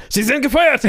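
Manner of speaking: high barking boss shout; angry boss. Retold or imitated. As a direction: scream it like a furious editor. Boss impression repeated. (wütender Chef brüllt)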